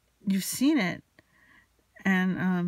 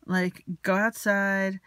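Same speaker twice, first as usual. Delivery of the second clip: louder, emphatic re-enacted telling-off; retold snapping; 2 semitones higher, 5 dB louder than usual. She snaps and ends the activity, retold as a loud telling-off. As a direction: lay down the law, punching each command. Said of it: "So I just snapped".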